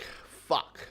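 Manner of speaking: breathless shocked whisper; whispered curse. Retold or imitated. Viewer reacting to Gambit's death, whispered curse. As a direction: whisper it in disbelief.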